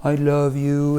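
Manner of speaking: lightly voiced sweet-talk; understated tender declaration; a touch of mushy affection; lovey-dovey. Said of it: "she's all lovey-dovey".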